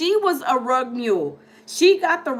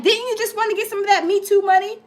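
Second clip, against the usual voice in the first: livid lawyer; 6 semitones higher, faster than usual. Retold or imitated. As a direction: fire the accusation like a furious lawyer. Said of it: "he was getting so pissed off".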